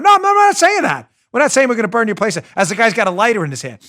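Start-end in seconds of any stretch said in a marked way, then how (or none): 0.0-2.4 mobster voice. Retold or imitated. Mob enforcer voiced in story.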